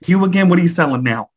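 hammed-up Bronx door answer; Bronx accent. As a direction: greet a pesky salesman in mock Bronx. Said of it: "a accent from the Bronx".

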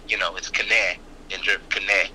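"Kne" with the K sounded, k-neh; "Kne" said German style, K then neh. Shown as a demonstration. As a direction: pronounce the K in "Kne", not silent. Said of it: "They pronounce every letter".

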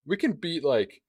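talking with a crumb stuck in the throat; half-choked, throat catching on food; choking. Real, not acted. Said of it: "I have a Dorito still in my throat".

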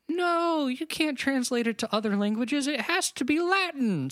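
high, emphatic mock decree; stern Church authority. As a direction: lay down the rule like a scolding church. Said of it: "the Catholic Church is kinda like".

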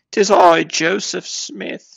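high, slow mock British grandeur; hammed-up British announcement; British Joseph Smith. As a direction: proclaim it like a pompous Englishman. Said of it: "The British version of Joseph Smith".

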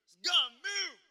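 mimicking the airport agent's African American accent; imitating African American accent. Preacher mimicking the airport agent in her African American accent. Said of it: "I tried to speak in her accent".

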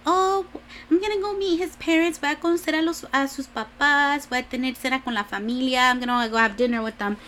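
put-on high, eager girlish voice switching into Spanish; bubbly daughter thrilled to meet the family; excited Mexican Bella. Bella telling everyone she'll meet his parents, high and eager. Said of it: "And then she'd be like".

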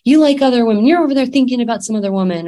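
a jealous wife lashing out at her husband; accusing wife. Retold or imitated. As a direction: hurl the accusations at him quickly. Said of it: "Instead of her accusing him".

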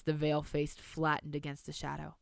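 measured storybook reading; story narration. A narrator's reading. Reads story aloud.

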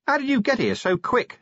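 high yelled question; yelling. A narrator's reading. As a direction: shout it up over the racket. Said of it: "he yelled".

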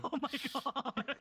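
laughing out loud; cracking up mid-word. Real, not acted. Bursts out laughing.

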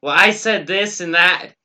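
imitating a gossiping woman; mock gossipy woman. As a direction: ape a gossip on the phone. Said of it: "talk on their cell phone are like".

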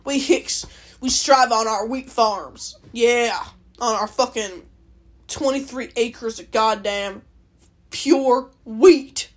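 put-on drawn-out Alberta hick accent; mock Alberta hick. Vlogger mocking rural Albertans, hammed-up hick accent. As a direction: imitate an Alberta farm hick, slowing down. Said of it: "That's what people act like".

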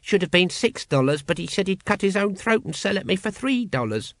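high-pitched character voice; grumbling cult brother. A narrator's reading. Dunnikin grumbles over his amulet.

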